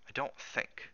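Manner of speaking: soft, trailing thought; hushed self-doubt. Acted. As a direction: murmur it to yourself, unsure. Cook doubts his own reassurance.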